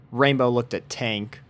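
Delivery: plain reading voice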